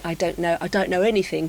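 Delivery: lightly imitated fake Cockney accent; well-spoken man's put-on Cockney, with "anything" lightly Cockney; Mockney. Shown as a demonstration. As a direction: demonstrate a mild Mockney accent. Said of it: "Mick Jagger would say".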